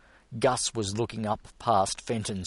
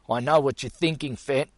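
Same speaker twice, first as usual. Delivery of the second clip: deep concern; 6 semitones higher, 6 dB louder, faster than usual. A narrator's reading. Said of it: "he said with deep concern".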